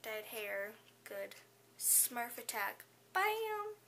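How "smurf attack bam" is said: high, loud "bam!" shouted; playful attack. Pretend. Fan pretending a Smurf attack, shouting bam high and loud. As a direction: pounce like a cartoon.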